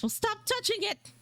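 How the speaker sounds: mock scolding retort. Mock retort to own remark.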